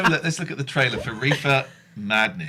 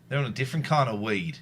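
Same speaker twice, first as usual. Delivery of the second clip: put-on Australian accent; 3 semitones lower than usual. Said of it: "I can't do grass in an Australian accent".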